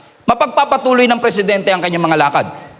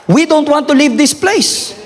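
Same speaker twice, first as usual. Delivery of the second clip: pleading shout; 6 semitones higher than usual. Acted. Quoting Moses, preaching.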